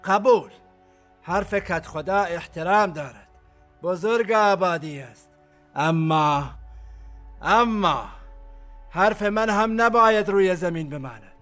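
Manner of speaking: commander announcing his verdict to all; public loud pronouncement. Acted. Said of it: "تکش با صدای بلند گفت". (اعلام آمرانه با صدای بلند)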